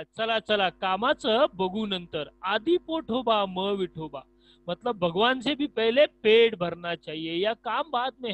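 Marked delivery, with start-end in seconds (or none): 0.0-4.2 loud, keen "let's go, work later"; eager friend agreeing. Acted. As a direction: urge him along with gusto. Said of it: "Ramrao बघा".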